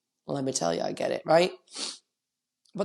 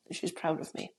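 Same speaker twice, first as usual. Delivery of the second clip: choked up; 10 dB quieter than usual. Real, not acted. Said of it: "Oh, I can't even with that".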